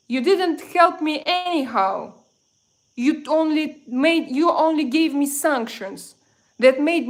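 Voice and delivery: loud, heated rant at a viewer; real anger, pushing the words out hard; emotional outburst. Real, not acted. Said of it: "probably I was too emotional".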